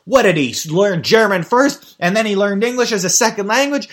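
loud, high-pitched incredulous rant; hammed-up exasperated quibbling; mock indignant question. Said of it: "I was going to be like".

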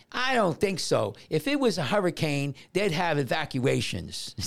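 hint of a child doubting the grown-up; lightly voiced girl. Lifeguard quoting a girl warned about hurricane surf, lightly mimicked defiance. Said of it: "So the girl goes".

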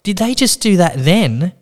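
high, slowed-down astonishment; mock gushing amazement. Receptionist to patient after surgery, mock gushing amazement.

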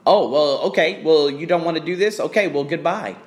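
mock dismissal. Acting out a gym boss's send-off, mock dismissive. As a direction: imitate someone brushing you off. Acted dismissive reply in a retold exchange.

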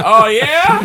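high laughing oh yeah; mock cop. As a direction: laugh out a sarcastic cop challenge. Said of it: "He's like".

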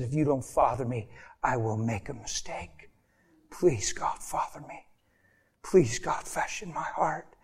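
low, soft pleading prayer; retold tearful plea. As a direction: plead quietly, trailing off, as if humbled. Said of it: "fell to the ground and cried and said".

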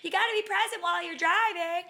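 high, loud chiding inner voice; little inner voice. Retold or imitated. Inner voice warning Babs while driving, high and loud. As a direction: squeak it like a tiny conscience. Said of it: "a little voice on the other side was like".

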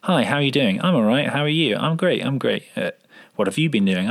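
tight quick dialogue. Shown as a demonstration. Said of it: "there tends to be quite tight".

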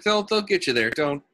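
put-on light Brooklyn accent; easygoing Brooklyn fella. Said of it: "starting to slip into, like, a Brooklyn accent".

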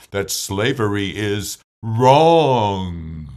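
impassioned orator with a New England Boston accent; rousing oratory, swelling at the end; Frederick Douglass. Shown as a demonstration. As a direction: deliver a formal speech, building to a loud, long-held last word. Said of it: "Here is my Frederick Douglass".

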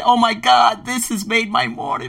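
high-pitched acted delight; delighted exclamation. Host hearing birds laugh at waking, high acted delight. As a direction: gush it high, as if thrilled.

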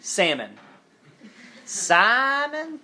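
high, puzzled mispronouncing of a name; mock confused northerners. Northern kids mangling his name, mock puzzled. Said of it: "they'd be like".

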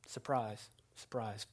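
whispered, sarcastic surprise, surprise; ironic whisper. Real, not acted. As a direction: breathe it out as a dry aside. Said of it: "ironic whispered aside".

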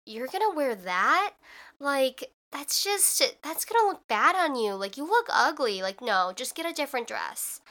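mildly incredulous, judging inner voice; critical inner voice. Retold or imitated. Inner voice judging a dress tried on at the mall, mildly scornful. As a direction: imitate a disapproving voice in your head. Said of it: "the voice in your head goes".

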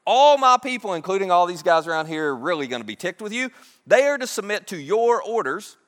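a king ordering his advisors to obey; Pharaoh commanding. Retold or imitated. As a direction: lay down the law before the court. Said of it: "So he goes on, he says".

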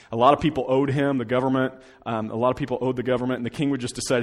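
ordinary delivery

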